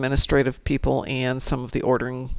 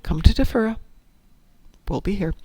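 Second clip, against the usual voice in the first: high playful quoting voice; light imitation of her own chat; mock game chatter; 10 semitones higher than usual. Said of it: "To which, of course".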